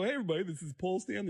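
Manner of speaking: an impression of a singer. Acted. Demonstrating the impression to the singer himself, hammed-up. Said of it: "And I start doing it".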